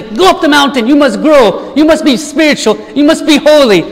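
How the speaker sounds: a touch of forceful commands, each line pushed; mock commanding God. Pastor voicing a God who forces his people, mock commanding. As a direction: order them up the mountain, half-mock stern. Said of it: "tie us up and say".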